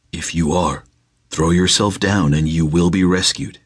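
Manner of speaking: a calm spirit daring him; tempting spirit. Acted. Spirit dares him to jump.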